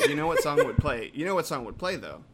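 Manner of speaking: laughing, excited question. Real, not acted.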